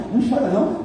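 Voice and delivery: high, sing-song imitation of a pushy consoler; mock consoling. Pastor mocking churchgoers who hush mourners, sing-song high mock consoling. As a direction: mimic a nosy churchgoer telling mourners not to cry.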